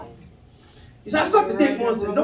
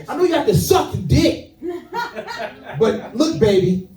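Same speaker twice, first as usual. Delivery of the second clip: lightly voiced older woman, a touch higher; mock motherly advice, raised pitch; older woman advising; 6 semitones higher than usual. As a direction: coo advice like a seasoned comedienne. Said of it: "She used to tell ladies".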